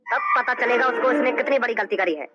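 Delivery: low, slow, menacing threat; a crime boss vowing revenge on the thief, low and slow; menacing villain boss. Acted. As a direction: drag each word out low like a gangster vowing revenge.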